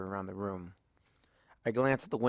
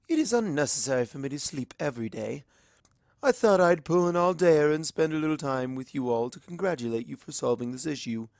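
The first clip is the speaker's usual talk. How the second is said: lightly voiced formal princess; 4 semitones higher, 3 dB louder than usual. Luna replies formally.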